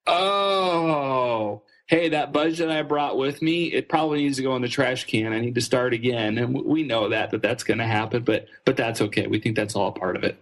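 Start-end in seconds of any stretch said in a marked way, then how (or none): 0.1-6.4 sudden realisation. Retold or imitated. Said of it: "suddenly people go".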